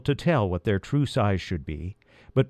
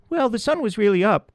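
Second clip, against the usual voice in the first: high, tiny mouse voice; little field mouse chattering; squeaky mouse voice; 11 semitones higher than usual. A narrator's reading. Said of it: "corrected the first".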